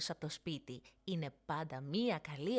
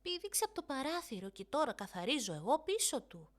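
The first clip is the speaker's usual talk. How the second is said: put-on quick fibbing girl; 5 semitones higher than usual. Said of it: "είπε γρήγορα η Νίνα".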